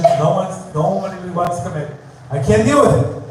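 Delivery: fed-up venting, complaining aloud to God; exasperated plea to God. Acted. Teacher acting out a student's complaint to God, exasperated. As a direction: pour out the frustration like a fed-up dater. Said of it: "You have to talk like that".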